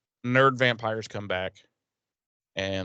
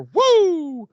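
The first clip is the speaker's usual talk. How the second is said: high mock woo; 8 dB louder than usual. Buffy cheering in retold scene.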